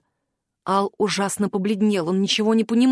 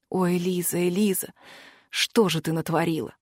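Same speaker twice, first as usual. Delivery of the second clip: lower, softer, heartbroken murmur; grieving softly; 5 semitones lower, 5 dB quieter than usual. Acted. Al cradling Eliza in his arms, a low soft lament. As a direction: grieve over her quietly, voice sinking.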